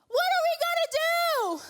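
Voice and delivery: shrill high squeal of panic, loud; hammed-up panic, very high and loud; panicked yelp. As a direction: freak out like a terrified servant. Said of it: "I just imagine him like".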